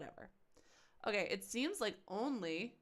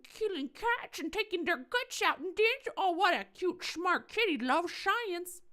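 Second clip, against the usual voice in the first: much higher, sing-song coo as if to a pet; cutesy baby talk; 11 semitones higher, 4 dB louder than usual. Acted. Gamer cooing at the creepy killer kid in cutesy baby talk. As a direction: gush over him like an adorable kitten.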